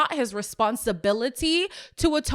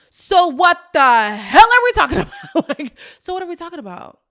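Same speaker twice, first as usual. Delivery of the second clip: laughing exasperation; 7 semitones higher, 10 dB louder than usual. Real, not acted. Exasperated at the couple's argument.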